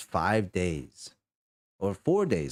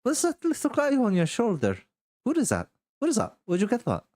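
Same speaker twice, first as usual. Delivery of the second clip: much higher, eager questions; delighted curiosity; faster than usual. Acted. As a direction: fuss over the little creature. Rosie curious about pet.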